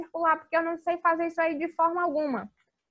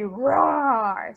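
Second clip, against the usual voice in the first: a light playful roar; mild lion roar; 4 dB louder than usual. Shown as a demonstration. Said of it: "é você fazer o rugido dele". (rugido de leão leve)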